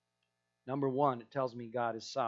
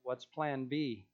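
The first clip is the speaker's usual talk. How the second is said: deadpan question; 3 dB quieter, slower than usual. Acted. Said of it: "long silence".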